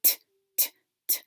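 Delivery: T as a voiceless tick, repeated; only the T release, no vowel; final sound alone. Shown as a demonstration. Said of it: "Final sound is".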